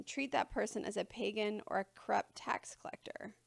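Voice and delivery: hushed whisper of the ruling; whispered quote. Retold or imitated. Preacher whispers Jesus' hard words to the congregation, hushed. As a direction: drop to a whisper for the harsh part.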